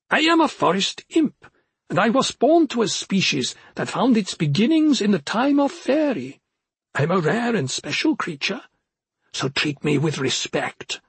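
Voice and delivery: high, proud little forest imp. Acted. Imp declares himself.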